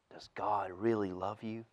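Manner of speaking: serpent's whisper. Acted. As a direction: lean in and breathe it like a tempting snake. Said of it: "whispered in her ear".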